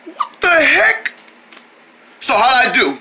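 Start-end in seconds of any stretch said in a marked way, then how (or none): 0.1-1.1 slow, odd rumbling stomach voice; talking stomach. Acted. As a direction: let the belly speak slowly. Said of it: "a big stomach impression".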